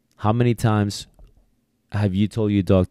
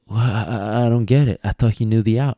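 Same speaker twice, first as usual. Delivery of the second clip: discouraged handler; 3 semitones higher, 3 dB louder than usual. Retold or imitated. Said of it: "the handler gets all discouraged".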